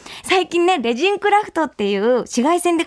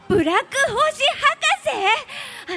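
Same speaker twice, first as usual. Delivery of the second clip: surprised; 9 semitones higher than usual. Acted. Host echoes in surprise.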